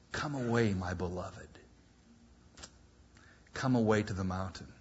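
soft, hushed call to come away; the Lord whispering. Acted. Preacher voicing the Lord calling his beloved: soft hushed call. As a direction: murmur it tenderly, close to the ear. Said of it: "the Lord is whispering in my ear".

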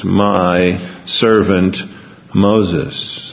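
slow, measured Bible reading; stately pulpit reading at half pace; scripture reading. Acted. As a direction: read out God's words solemnly, drawing out the phrases. Reads scripture aloud.

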